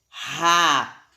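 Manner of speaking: RAPOSA split into syllables, strong initial R. Shown as a demonstration. Teacher showing word-initial R, strong R in "Raposa". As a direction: sound out "Raposa" as if it began with double R. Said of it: "ele saiu forte".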